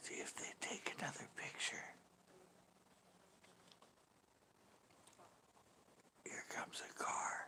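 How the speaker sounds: barely audible, whispered golf-announcer play-by-play. Commenting quietly at a golf event: whispering. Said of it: "I'm gonna stop whispering now".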